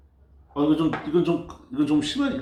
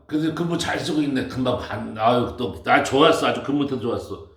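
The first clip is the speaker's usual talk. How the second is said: imitating a bossy resident. Imitating the resident checking on him.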